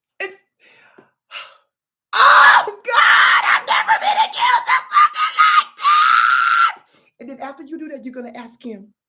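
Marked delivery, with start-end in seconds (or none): 0.2-6.8 shrill, loud, very drawn-out fake weeping wail. Showing someone how to fake tears after being accused: mock crying. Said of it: "Watch this".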